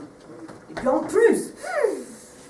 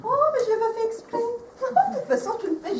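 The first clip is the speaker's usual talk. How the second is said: laughing; 11 semitones higher, faster than usual. Real, not acted. High fast laughing denial.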